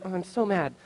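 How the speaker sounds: softly muttered, held-in annoyance; contained anger. Retold or imitated. Pastor on how he outwardly took his smashed window, anger held in. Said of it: "it was really like".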